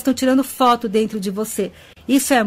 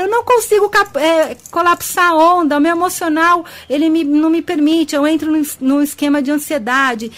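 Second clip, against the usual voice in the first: a lightly voiced anxious follower, pitched higher and complaining; 4 semitones higher than usual. Host mimics followers who can't control emotions, higher mock whine. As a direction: imitate someone stuck in their anxiety, whiny. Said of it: "tem gente que fala".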